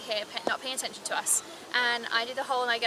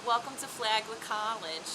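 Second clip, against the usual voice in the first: mock campus tour welcome, drawn out; lightly put-on tour guide greeting; 3 semitones lower, 3 dB quieter than usual. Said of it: "like, mock tours sometimes".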